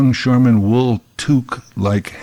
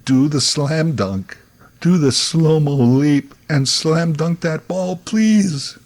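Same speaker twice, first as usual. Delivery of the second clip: slow plea climbing higher to the end; mock screaming at TV; 4 semitones higher, slower than usual. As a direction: beg the TV hero, stretched out and rising. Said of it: "now I'm screaming at the T V".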